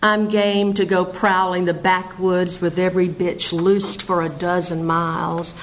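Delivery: measured verse recital; poetry reading. Acted. Poet reads a wild moon poem to listeners, poetry reading. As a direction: read it as a poem, pausing at line breaks.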